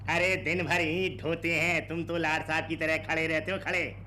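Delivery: high, needling protest; scolding complaint. Acted. Labourer scolding idle boss, high complaint. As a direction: grumble back at the boss.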